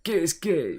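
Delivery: high, loud, slow hype yelling; playing an overexcited fan losing it; hyped-up mock viewer. Mates retelling their first watch, loud mock hype. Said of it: "we're sat there going".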